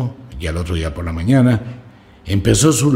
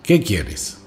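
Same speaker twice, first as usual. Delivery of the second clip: calmer grumble. Acted. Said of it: "ya un poco más calmado".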